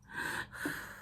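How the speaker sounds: soft exhale to regain composure; real emotional sigh; tearful sigh. Real, not acted. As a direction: breathe out quietly through the upset. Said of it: "Okay, I'm crying".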